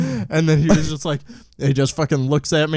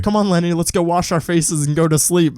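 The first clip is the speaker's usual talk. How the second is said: higher-pitched mock cat-lady coaxing; put-on crazy cat-lady voice; 5 semitones higher than usual. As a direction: imitate a crazy cat lady talking to her pet. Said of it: "she sounds really crazy when she talks to Liddy".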